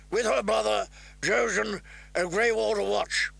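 high, projected guardsman's proclamation; bellowed announcement. A narrator's reading. Guardsman announcing two new guests at a feast, bellowed. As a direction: announce each name over a noisy hall. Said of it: "the rotund guardsman bellowed over the clamor".

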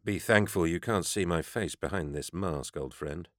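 soft inner-thought voice; thinking aloud. Acted. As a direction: say it as a private thought. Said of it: "I thought".

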